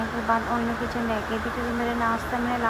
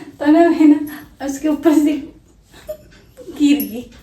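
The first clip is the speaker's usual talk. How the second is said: laughing; 3 semitones higher, 6 dB louder, slower than usual. Real, not acted. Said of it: "इतनी हंसी आ रही है".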